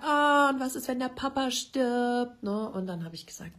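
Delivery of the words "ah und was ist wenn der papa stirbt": little son's worried question. Retold or imitated. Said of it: "Und dann hat er gesagt".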